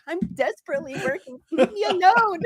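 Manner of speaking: playfully exasperated, voice rising high on leave me alone; mock exasperation. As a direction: whine it like a swamped worker shooing someone off. Mock reply to a nagging friend.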